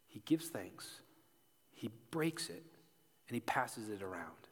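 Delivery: whispered, reverent; hushed. A narrator's reading. Preacher retelling the bread, whispered. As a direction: breathe the words out softly.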